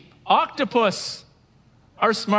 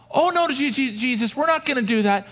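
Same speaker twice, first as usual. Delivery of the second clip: mock eager protest; 8 semitones higher than usual. Disciples protest to Jesus.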